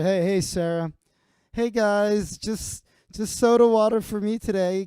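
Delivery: high, sing-song, coy woman's voice; fishing for attention with a coy tease; smug Sarah. Retold or imitated. Sarah teases the bar regulars, high and coy. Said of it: "imagine it's like".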